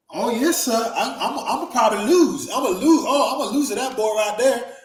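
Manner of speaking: high, loud, bouncing mock-dim voice; dumbed-down simpleton act. Tony placates the gunman backstage, playing dumb and submissive. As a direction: play dumb and eager to please, pitch swooping. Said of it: "he dumbed down himself".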